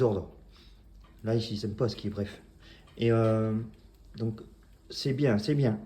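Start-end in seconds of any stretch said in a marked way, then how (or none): 4.9-5.8 "C'est bien, c'est bien" louder, each with a falling tune; praising intonation. Shown as a demonstration. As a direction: praise the dog twice, "C'est bien, c'est bien", with emphasis. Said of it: "les intonations longues pour les félicitations".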